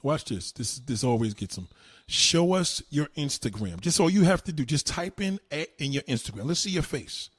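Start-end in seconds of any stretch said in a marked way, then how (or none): 2.1-3.8 drawn out, each word leaned on; slow-motion challenge; slow taunting demand. Real, not acted. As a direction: repeat it slowly and deliberately to goad them.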